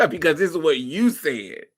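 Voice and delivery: talking through real laughter; laughing. Real, not acted. Host throwing the caller's words back, laughing. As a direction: get the words out while laughing.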